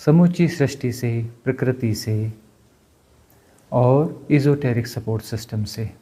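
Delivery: measured, earnest group prayer; guided prayer. Real, not acted. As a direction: lead listeners through a solemn invocation. Leads a collective prayer.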